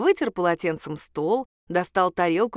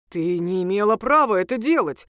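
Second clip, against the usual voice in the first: indignant protest with a louder edge; outraged at his ex-wife; 4 dB louder than usual. Acted. Ex-husband objecting to the divorce, indignant. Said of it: "возмутился тот".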